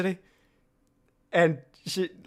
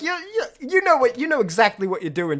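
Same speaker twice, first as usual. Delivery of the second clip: mock exasperation; 8 semitones higher, 4 dB louder than usual. Mock scolding burst.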